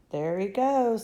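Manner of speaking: loud call from the crowd; shouting. Acted. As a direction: point and shout. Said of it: "somebody shouted".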